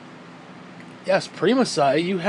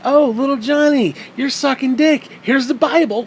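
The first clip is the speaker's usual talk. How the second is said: mock preachy parent; 5 semitones higher, 3 dB louder than usual. Parent preaching at gay son.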